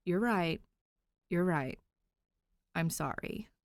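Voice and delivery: calm her down gently; placating. Acted. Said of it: "Pretty Cop placates".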